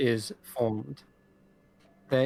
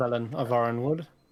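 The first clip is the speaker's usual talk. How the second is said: ordinary delivery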